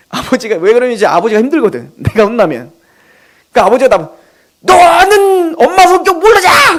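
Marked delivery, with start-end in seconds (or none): 4.6-6.8 a hint of a father's scolding, higher, louder and slow; mild mock scolding from a fed-up father; retold angry outburst. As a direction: replay dad snapping at his son, half-performed. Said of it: "화를 냈던 기억이".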